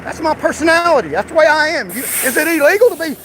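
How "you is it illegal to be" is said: heated, higher-pitched challenge; indignant raised-voice demand. Real, not acted. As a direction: push the question out in a raised voice. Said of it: "I mean, yelling".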